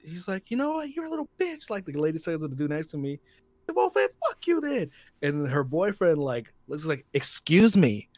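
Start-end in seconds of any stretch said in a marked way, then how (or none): 0.5-4.9 high pitched retold insults; hammed-up nasty retort; mock angry insult. Lady snaps at the clapping guy, high and mocking. 7.1-8.1 louder, higher challenging threat; mock confrontation. Boyfriend confronts the man next to him, louder and higher.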